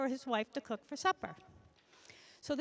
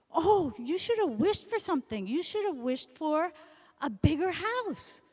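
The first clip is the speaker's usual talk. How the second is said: louder, a touch of reproach; scolding wife; 4 semitones higher, 5 dB louder than usual. Acted. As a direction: nag him lightly about the house.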